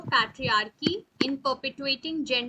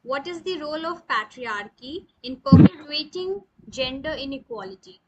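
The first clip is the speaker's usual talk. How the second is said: asked again louder for a bad line; louder repeat; 6 dB louder than usual. Real, not acted. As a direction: repeat the question louder and clearer. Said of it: "can you please repeat the question?".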